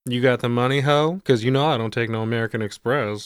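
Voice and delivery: a hint of a flamboyant hustler; mildly sassy drug dealer voice. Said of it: "way more flamboyant than you expect".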